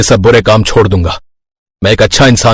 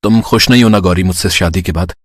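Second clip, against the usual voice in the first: softer, downcast question; a little sad; 3 semitones lower, 4 dB quieter than usual. Acted. Husband asking bride if she's unhappy, gently sad. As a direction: ask with quiet hurt. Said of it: "सूरज थोड़ी उदासी के साथ ये बात कहता है।".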